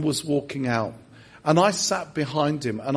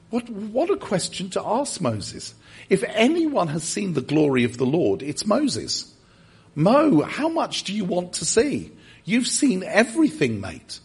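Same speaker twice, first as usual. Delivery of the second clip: high, amused disbelief; incredulous; 3 semitones higher than usual. Retold or imitated. Preacher imagining himself teasing Moses, amused and incredulous. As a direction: tease Moses with mock astonishment. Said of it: "I was thinking".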